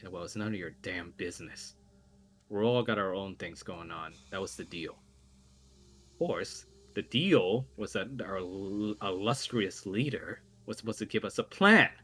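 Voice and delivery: a touch of haughty contempt; sneering. Acted. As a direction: put the questioner down with light scorn. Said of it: "sort of sneer at that voice".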